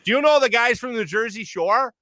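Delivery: put-on Wisconsin accent. Bar lady asking about Jersey Shore, lightly imitated Wisconsin accent. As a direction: mimic a curious Wisconsin bar patron. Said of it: "hearing that accent talk about".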